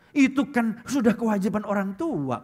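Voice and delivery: a hint of a spoiled kid, slow; bratty child. Preacher mimics a child who takes money for granted, lightly mocking. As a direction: drawl it out like an entitled child.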